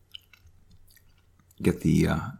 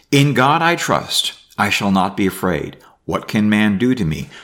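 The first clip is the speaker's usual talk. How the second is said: raised, measured Bible reading; reading scripture aloud; 3 dB louder than usual. Acted. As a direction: read the psalm out to the class. Reads psalm aloud.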